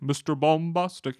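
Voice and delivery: lightly imitated singer, slow with a broadened vowel; a singer. Host quoting a hit song, light singer imitation. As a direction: draw out Bombastic as "bom-BAHS-tic", lightly mimicking. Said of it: "he has that very unique voice of singing".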